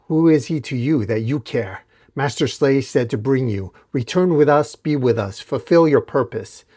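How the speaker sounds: mild mock yell. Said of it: "One of the masked warriors yells".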